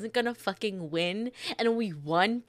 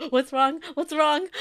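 high, loud, urgent questioning; worked-up, raised-pitch alarm; mock panic; 7 semitones higher, 5 dB louder than usual. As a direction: re-enact a flustered outburst. Re-enacts panicked hooting in the game.

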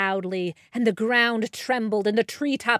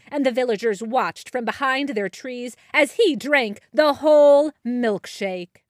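ordinary delivery, nothing marked

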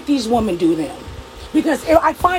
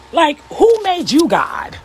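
slow indignant; 3 semitones higher, slower than usual. Real, not acted. Upset rant ending.

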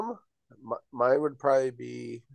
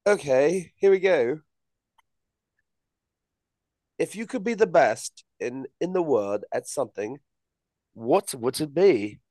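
put-on British accent. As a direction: speak in a mock British accent. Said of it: "one more minute with the accent".

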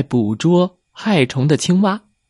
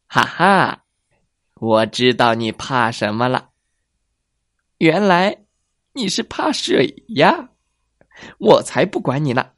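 gloating fox. Acted.

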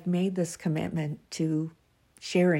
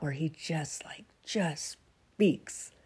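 whispered; 4 dB quieter, slower than usual. Real, not acted. Teary while describing his words.

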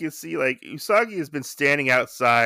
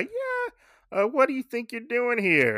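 pitched-up sharp challenge to intruders; gruff master challenge; 10 semitones higher than usual. Retold or imitated. Master catching the boys spying, high sharp challenge. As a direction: call them out, high and sharp. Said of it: "he's like".

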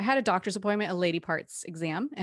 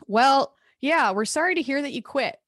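high, loud mock sympathy; fake sympathy; 7 semitones higher, 5 dB louder than usual. Boss telling Jocelyn she quit, mock sympathetic. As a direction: imitate the boss faking regret.

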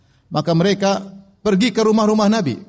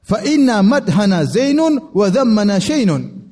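slow, higher-pitched proclamation; retold boasting; 4 semitones higher, slower than usual. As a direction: declaim the boast in measured Arabic, imitating the speaker. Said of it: "dia sesumbar".

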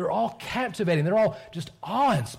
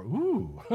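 awed ooh; 5 semitones higher than usual. Retold or imitated.

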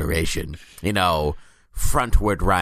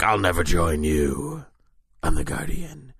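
mild heroic defiance; 3 semitones lower than usual. Retold or imitated. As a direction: drag it out with mild resolve. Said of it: "And Guardian's like".

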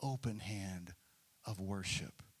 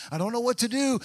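anguished cry; 9 semitones higher, 7 dB louder, faster than usual. Acted. David's prayer rises to a cry.

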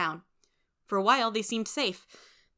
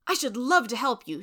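warm; 5 semitones higher, 5 dB louder than usual. A narrator's reading. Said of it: "she said warmly".

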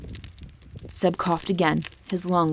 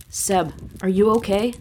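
anxious; 3 semitones higher than usual. Acted. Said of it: "the anxiety in his dragon's voice".

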